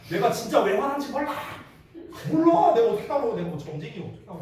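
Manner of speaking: retold girlfriend snapping back, rising to a loud peak on 몰라; hammed-up indignant shout; mimicking the ex's exasperated retort; mock angry outburst. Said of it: "무적의 가불기로 이제 거는 거야".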